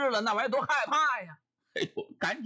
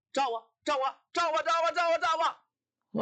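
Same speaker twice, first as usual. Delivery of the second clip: shrewish tantrum; 7 semitones higher than usual. Acted. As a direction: dare him to shine it on her, slowing at the end. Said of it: "撒起泼来了".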